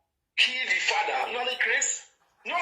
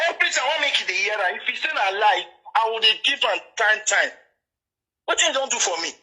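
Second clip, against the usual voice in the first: louder, worked-up scolding; heated rant; 5 dB louder than usual. Real, not acted. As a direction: tear into him, daring him to show his place. Rant keeps building.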